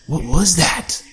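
startled, panicky question; panicked. Acted. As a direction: panic leaking into the voice. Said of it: "unable to hide the panic".

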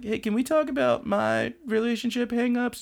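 high, mock-needy voice; high needy suitor; whiny suitor. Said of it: "And he's like".

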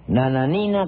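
"Nananina" cargando la voz en la i de "ni"; acento en la I. Acted. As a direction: marca la i tónica de "Nananina". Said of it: "con acento en la I". ("Nananina" con énfasis cómico en la penúltima sílaba, "ni")

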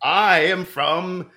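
very slow, drawn-out place name; slow, hesitant reveal with a pause; halting. Pretend. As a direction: feel your way through the syllables. Halting answer in put-on accent.

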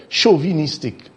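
"chauvinistic" as show-vee-NIS-tic; "chauvinistic" quoted with mock-careful syllables; mocked mispronunciation. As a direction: mimic an odd "chauvinistic" with a long vee. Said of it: "Where have you ever heard a pronunciation".

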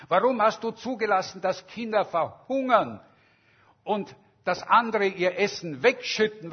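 loud, accusing rant, rising; fiery speech. Retold or imitated. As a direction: hurl the questions at God in anger. Fiery speech of strike leader.

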